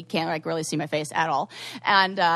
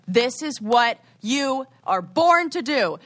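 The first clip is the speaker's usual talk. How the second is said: mom's rousing pep talk, high and loud; retold pep talk; 6 semitones higher, 5 dB louder than usual. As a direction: imitate a mom firing up her kid. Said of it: "I call my mom, and my mom".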